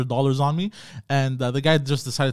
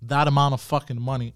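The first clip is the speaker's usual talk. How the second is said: imitating a mildly furious mom; angry mother; 2 semitones higher, 5 dB louder than usual. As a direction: scold your kid for handing over money. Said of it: "My mother was like".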